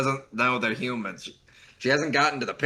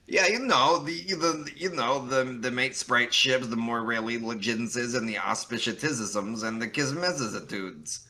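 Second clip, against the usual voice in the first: excited. Shown as a demonstration. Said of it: "repeats the narration lines".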